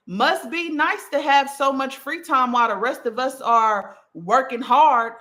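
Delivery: condescending. Acted. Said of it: "Okay, condescending".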